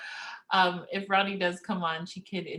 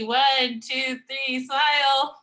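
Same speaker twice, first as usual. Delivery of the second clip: bright, rising count to the group; rally everyone for the snapshot, louder each beat; photo countdown; 5 semitones higher, 4 dB louder, much slower than usual. Real, not acted.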